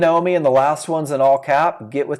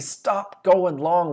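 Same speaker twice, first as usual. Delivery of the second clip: slow emphatic; 3 semitones higher, much slower than usual. Retold or imitated. Sellers pleading with buyers, slow and emphatic. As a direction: stop going long dragged out slowly. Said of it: "they said it for the third time".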